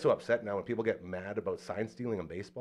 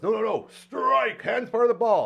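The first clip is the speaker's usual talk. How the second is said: umpire voice; 11 semitones higher, 6 dB louder than usual. Retold or imitated. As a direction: play the umpire calling it flatly with a raised voice. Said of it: "The umpire goes".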